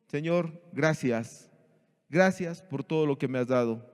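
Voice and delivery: unhurried grateful prayer; sincere thanks. Retold or imitated. Job's sincere thanks, quoted.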